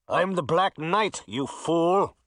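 proud, scornful villain voice; menacing knight. Acted. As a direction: sneer it down at him. Villain declares himself.

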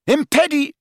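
high, cut-off cry; shouted spell. A narrator's reading. Harry interrupted mid-jinx, yelled. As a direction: yell the jinx, broken off.

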